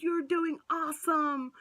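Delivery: light mock cheerleader praise; cheerleader nurse. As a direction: mimic a nurse cheering her on. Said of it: "She was such a cheerleader".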